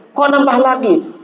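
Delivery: high-pitched mock astonishment; comically taken aback; surprised questioning. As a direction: retell it as an incredulous question, pitch jumping up. Retold surprise at another new wife.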